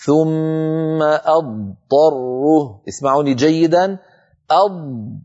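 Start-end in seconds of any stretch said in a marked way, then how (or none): 0.0-2.8 أضطره very slow, full ض then ط; slow correct recitation; dad then ta clearly. Shown as a demonstration. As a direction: recite أضطره slowly, the letters kept apart. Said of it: "فأقول".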